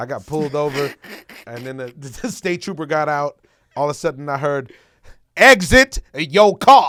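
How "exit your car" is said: blaring megaphone-style voice, very loud and high. Retelling being pulled over as the state trooper orders over a megaphone: imitating megaphone command. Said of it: "he had the megaphone on".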